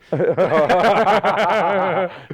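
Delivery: high, loud peals of laughter; real uproarious laughter. Real, not acted. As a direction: keep cracking up, helplessly. Cracking up at podcast hypocrisy joke.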